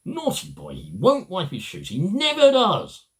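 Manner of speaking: put-on high little-girl reply; little girl Wendy. A narrator's reading. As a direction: pitch it up like a young girl. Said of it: "said Wendy".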